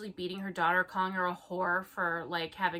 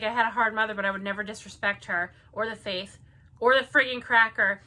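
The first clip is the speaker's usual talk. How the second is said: louder sing-song mockery of the reviewer; mocking reviewer; 6 dB louder than usual. Friend mocks a pious reviewer to her co-host, sneering. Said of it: "She's like".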